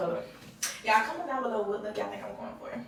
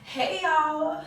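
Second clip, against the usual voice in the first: higher-pitched put-on hello; fake vlogger greeting; 5 semitones higher than usual. Vlogger starting another take, fake intro voice. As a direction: sing out a hello to followers. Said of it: "how fake I talk".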